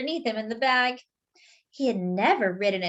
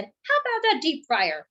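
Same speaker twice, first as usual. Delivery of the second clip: higher put-on voice, peaking very high on sprinkles; flirty donut; 10 semitones higher than usual. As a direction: try out cheesy pickup lines. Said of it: "He said".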